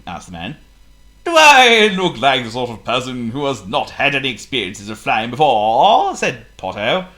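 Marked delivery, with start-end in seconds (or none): 1.2-6.1 indignant. Acted. Potto indignant.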